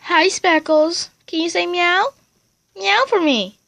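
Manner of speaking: high, coaxing voice for a cat; coaxing a pet. Real, not acted.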